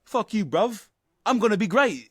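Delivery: high-pitched mock taunt; cocky young racer mocking the old pro; cocky upstart. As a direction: toss it off like a swaggering young driver. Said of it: "he's kinda like".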